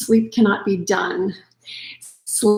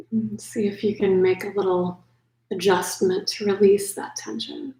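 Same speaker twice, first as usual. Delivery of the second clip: unhurried yoga nidra guidance with long pauses; calm sleep-meditation voice, leaving space between phrases; guided meditation. Acted. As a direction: ease the listener gently toward sleep.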